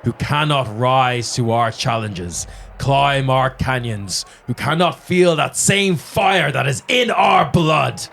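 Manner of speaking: magically amplified voice. Acted. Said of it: "as he says".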